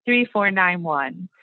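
reading digits one by one. Shown as a demonstration. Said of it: "So we do the four digits, a space".

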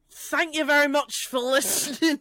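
put-on a lighter, accidental Scottish accent. Told to drop the accent, still lightly Scottish. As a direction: aim for own accent but still sound faintly Scottish. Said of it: "I don't know why you're Scottish".

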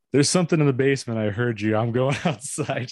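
a mock protest breaking into laughter; daughter's protest.

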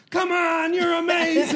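high, loud mock cheer. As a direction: cheer them on sky high. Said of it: "have people go, be like".

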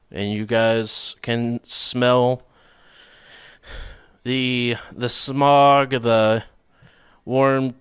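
slow, drawn-out scene description; scene setting narration. Acted. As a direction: paint the city slowly for players. GM sets scene slowly.

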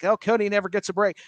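lightly put-on grumble of a fed-up fan; mock complaining. Host imitating fans who complain about the storyline, mildly whiny. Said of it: "some people were complaining about it".

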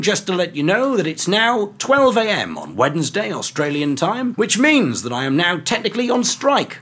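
a hint of a calm pilot over the intercom; airline pilot announcement. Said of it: "hear the pilot's voice over the plane saying".

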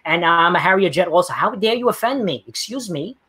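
mock offended activist. Mocking his opponent with a caricature, mock offended pitch. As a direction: play the easily offended caricature, high and indignant.

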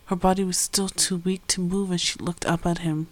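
calm storytelling voice; story narration. A narrator's reading. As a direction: read it like an audiobook.

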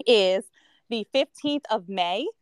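strained, failing voice; voice giving out. Real, not acted. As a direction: push through a fading voice. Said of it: "I'm losing my voice".

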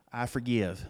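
leading the congregation. Shown as a demonstration. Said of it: "Say it with me".

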